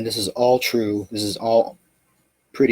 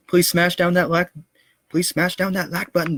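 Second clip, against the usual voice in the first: pleading; 9 semitones higher than usual. Acted. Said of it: "outro plea to like the video".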